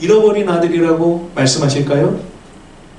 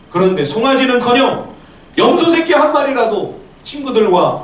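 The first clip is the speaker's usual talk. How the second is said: high, indignant complaint; angry protest; 6 semitones higher than usual. Acted. Elder son protesting his unrewarded work to father, angry protest. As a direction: throw your grievances at him, pitch raised. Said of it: "우리 화나서 싸울 때 하는 말이잖아요".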